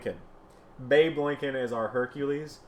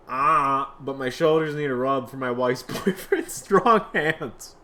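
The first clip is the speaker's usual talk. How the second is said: put-on servant voice; 5 dB louder, slower than usual.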